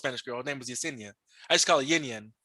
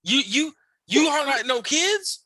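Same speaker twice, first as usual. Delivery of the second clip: broken English; 9 semitones higher, slower than usual. Retold or imitated. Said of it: "coworkers questioning him".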